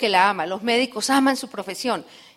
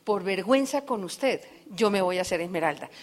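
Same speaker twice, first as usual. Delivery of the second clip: soft earnest promise; 4 semitones lower, 7 dB quieter than usual. Retold or imitated. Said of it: "le digo".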